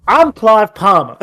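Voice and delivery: a country-radio Southern American twang as Clive Palmer; mock Southern American campaign ad. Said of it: "country music playing in the background".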